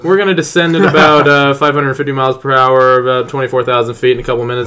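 lightly voiced captain, quick and matter-of-fact; brisk captain update; pilot announcement. The speaker announcing the descent, brisk captain patter. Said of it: "do a pilot voice".

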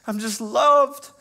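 high, slow, loud proclamation; joyful release; slow loud declaration. Retold or imitated. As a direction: land each word slowly and big. Emotional climax of testimony.

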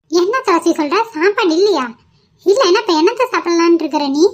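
mother-in-law snapping at daughter-in-law; scolding mother-in-law. Acted. Mother-in-law scolds over food. (மாமியார் கோபமாக திட்டுதல்)

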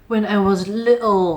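demonstrated British accent, drawn out on little. Shown as a demonstration. Teacher showing learners an unnecessary posh model, British accent. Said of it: "ไม่จำเป็นจะต้องแบบสำเนียงแบบ British".

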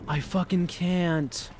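breathless laughter. Real, not acted. Exhausted from laughing.

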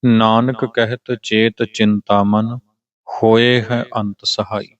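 slow, measured scripture reading; model recitation. Shown as a demonstration. Teacher showing how the line is to be read, slow recitation. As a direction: recite it deliberately, phrase by phrase. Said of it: "ਇਹਦਾ ਪਾਠ ਹੋਏਗਾ".

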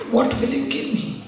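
pitched high on What; a sudden high bargaining ask; voice of temptation. Retold or imitated. A preacher voicing a sinner bargaining with Satan, high and pointed. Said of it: "speaking to Satan and saying".

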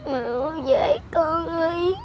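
crying. Real, not acted. Child pleading for missing mother.

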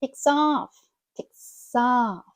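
"takes off" as "tay-ksoff"; linked words. Shown as a demonstration. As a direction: run the s of "takes off" into the vowel. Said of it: "Ми їх склеюємо разом".

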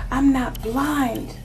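lover's self-justifying protest, climbing in pitch; mounting plea in a jealous lover's role; acted hurt protest. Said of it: "This person's like".

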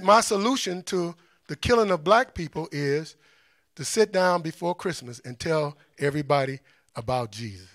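low, soft retold sermon line; deflating quote, dropping away at the end; mock anticlimax. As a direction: imitate a letdown, sinking in pitch and volume. Mocks leader's tame anticlimactic message.

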